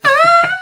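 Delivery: high-pitched mock "ah"; mock cry. Imitating the character in a cartoon retelling, high mock cry.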